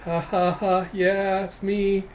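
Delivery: spaced-out fake ha-ha-ha; awkward, put-on modesty; uncomfortable forced laugh. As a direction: laugh along while hating the attention. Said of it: "just not liking the attention".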